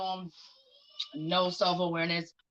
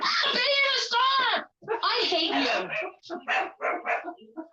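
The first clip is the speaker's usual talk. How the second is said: scream; 14 semitones higher, much slower than usual. Real, not acted. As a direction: scream at the dog to stop. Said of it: "'cause I screamed".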